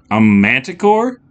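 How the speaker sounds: high, slow, rising disbelief; astonished question; gasped question. A narrator's reading. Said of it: "gasped Andrea".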